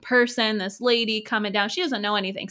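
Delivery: loud mock indignation, easing off; acting out an affronted grumble; upset retelling. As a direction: protest indignantly, strongest at the start. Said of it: "So they're, like, really upset".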